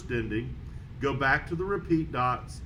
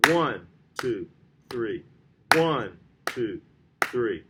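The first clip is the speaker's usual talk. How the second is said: ONE punched louder, two and three lighter; accent on one; 3 semitones lower, 4 dB louder, much slower than usual. Shown as a demonstration. Teacher demonstrating the accent mark to students, stressing One. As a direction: hit One hard on each count, then ease off. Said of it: "So it would sound like this".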